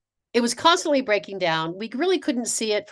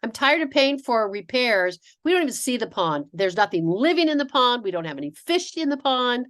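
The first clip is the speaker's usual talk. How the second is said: husband, annoyed; 4 semitones higher than usual. Retold or imitated. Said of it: "but he said".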